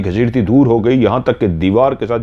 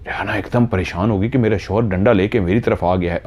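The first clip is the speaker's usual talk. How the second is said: ordinary delivery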